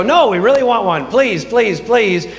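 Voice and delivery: playful imitation of begging; mock pleading. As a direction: plead like an insistent people wanting their way. People begging God for a king.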